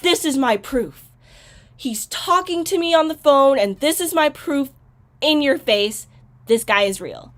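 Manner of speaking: mock-triumphant, insisting on proof; lightly acted gloating excitement; excited, triumphant. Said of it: "she gets so freaking excited".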